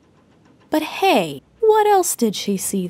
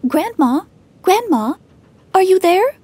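calling higher and rising, louder at the end; 9 semitones higher, 4 dB louder than usual. Acted. Red Riding Hood calling to grandmother in the open house. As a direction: call into the house, growing anxious. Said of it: "called out to her grandmother".

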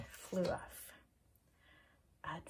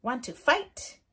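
high, loud, cheeky challenge; grouchy ladybug voice; 4 semitones higher, 8 dB louder than usual. Acted. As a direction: pick a fight in a squeaky bug voice. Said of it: "said the grouchy ladybug".

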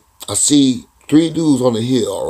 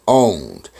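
"owned" repeated low with a firm fall; isolated, weighty "owned"; stress on "owned"; 4 semitones lower than usual. Retold or imitated. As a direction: underline "owned" with a low, falling tone. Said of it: "He said".

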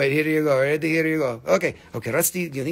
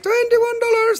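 quoted price; 4 dB louder than usual. Retold or imitated. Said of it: "She's like".

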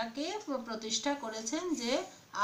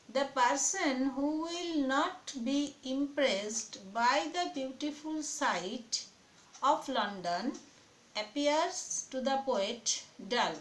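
slow, measured read-aloud with pauses between phrases; teacher's drawn-out dictation; much slower than usual. Real, not acted. Reads out answer for dictation.

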